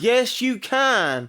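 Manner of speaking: high, loud, very drawn-out insistence; insistent contradiction. Real, not acted. Contradicting the doubter a second time, loud insistence. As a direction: stretch it into a loud comeback. Back-and-forth argument.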